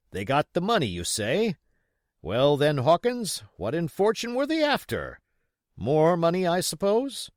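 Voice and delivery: puzzled supervisor. A narrator's reading. Dance quizzing young Hawkins, brisk and puzzled. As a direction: press the boy for answers.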